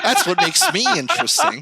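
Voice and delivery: high, breaking into laughter; talking through real laughter; laughing. Real, not acted. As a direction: crack up mid-sentence.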